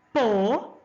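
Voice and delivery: "Possível" in three syllables with long pauses between. Shown as a demonstration. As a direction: sound out "Possível" so the SÍ can be picked out. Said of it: "A professora vai falar". ("Possível" separado em sílabas, para ouvir a mais forte)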